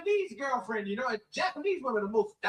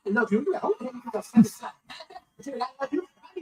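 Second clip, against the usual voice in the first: cracking up mid-line; can't hold it together, laughing; words breaking into real laughter; laughing through it; 4 dB louder than usual. Real, not acted.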